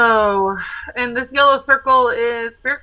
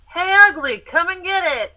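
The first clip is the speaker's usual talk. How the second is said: higher-pitched mock battle taunt; taunting shout; 8 semitones higher, 5 dB louder than usual. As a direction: call out to bait an enemy. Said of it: "I'm gonna shout".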